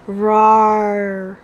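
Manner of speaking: drawn-out playful lion roar. Pretend. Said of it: "What does the lion say?".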